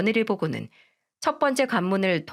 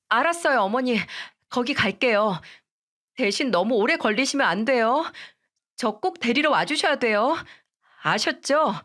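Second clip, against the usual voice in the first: put-on higher, begging young wife voice; pleading daughter-in-law; 4 semitones higher than usual. Daughter-in-law begging mother-in-law and husband, higher pleading voice. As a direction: plead desperately, a touch tearful in tone.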